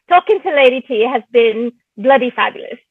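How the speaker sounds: attempted British accent; put-on English accent, evenly paced. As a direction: have a cheeky go at an English accent. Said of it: "You want me to try?".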